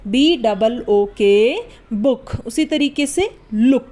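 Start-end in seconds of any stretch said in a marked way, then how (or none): 0.1-1.5 slow letter-by-letter spelling. Shown as a demonstration. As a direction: spell बी डबल ओ टी out slowly, letter by letter. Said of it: "spelling out the word". (धीरे-धीरे एक-एक अक्षर बोलकर spelling)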